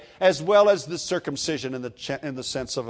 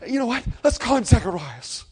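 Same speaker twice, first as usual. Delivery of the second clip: lightly acted, higher-pitched suggestion; excited relatives; 8 semitones higher, 4 dB louder than usual. Relatives suggest a baby name, mildly excited and higher. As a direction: pitch it up as a bright idea. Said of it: "and everybody's saying".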